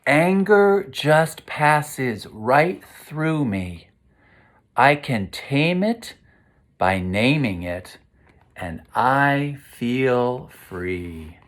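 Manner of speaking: slow, gentle verse; reading to children. A narrator's reading. Teacher reading the closing verse to the class, slow soothing read-aloud. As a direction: let the lines drift calmly. Reads rhyming picture book aloud.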